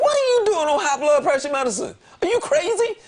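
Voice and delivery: high-pitched, exasperated mock yell; retold yelling. Man replaying his outburst at a close friend, yelling. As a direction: scold her in a shrieky reenactment. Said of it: "I yelled at her".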